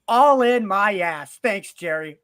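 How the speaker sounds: a fed-up Cowboys fan lets it all out, slow and loud. Retold or imitated. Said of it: "not raise my voice".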